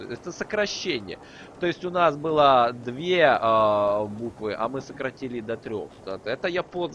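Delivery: normal talking voice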